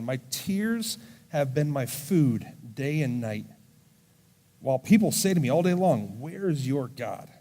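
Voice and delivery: slow, deliberate reading of a psalm; drawn-out psalm reading; scripture reading. Acted. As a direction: read each line slowly, letting it land.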